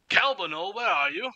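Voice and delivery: high-pitched searching call. Acted. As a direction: gnome sing-songing for someone out of sight. Gnome calls for someone.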